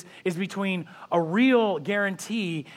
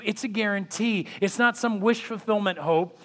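ordinary talk, nothing marked

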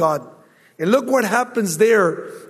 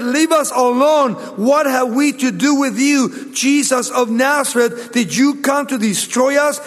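louder, higher demon's cry; 4 semitones higher, 4 dB louder than usual. Acted. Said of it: "and he cried out".

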